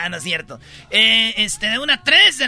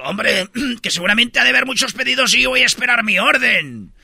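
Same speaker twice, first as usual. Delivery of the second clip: emphatic man from Spain; mock Castilian accent; Spanish accent. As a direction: declare it like a Spaniard waiting to eat. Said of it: "Y dice el español".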